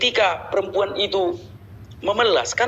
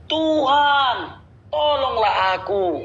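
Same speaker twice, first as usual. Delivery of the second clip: pleading woman; 7 semitones higher, much slower than usual. Acted. Reading the pleading woman's words.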